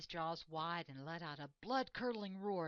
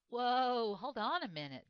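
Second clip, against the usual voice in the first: a loud, higher whoa to break up a fight; urgent call to stop; 6 semitones higher, 9 dB louder than usual. Acted. Buffalo stops Leo from pouncing, loud and urgent. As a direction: step in between them, loud. Buffalo rushes in between them.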